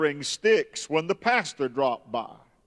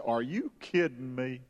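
muttered low under her breath; a retold aside, said under the breath; 4 semitones lower, 8 dB quieter than usual. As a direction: grumble it to yourself, low and soft. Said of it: "under her breath she said".

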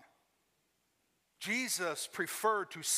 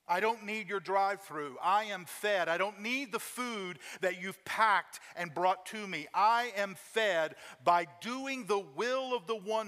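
louder, slow and emphatic; preaching build; 2 semitones higher, 4 dB louder than usual. Retold or imitated. Jesus declaring to the disciples, louder and emphatic. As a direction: punch each phrase home. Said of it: "here's what he says to them".

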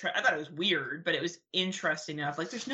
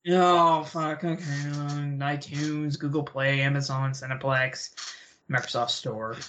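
low, defeated listing, sinking lower; 3 semitones lower, slower than usual. Real, not acted. Co-host asked where people can find the film, defeated. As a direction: list them off like you've given up. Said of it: "You sound so defeated".

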